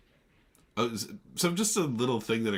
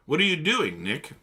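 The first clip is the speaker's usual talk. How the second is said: loud, higher brusque interruption; gruff Tom; 8 semitones higher, 7 dB louder than usual. Acted. Tom interrupts Daisy to talk to Nick, brusque. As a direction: cut in hard. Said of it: "let me do my Tom voice".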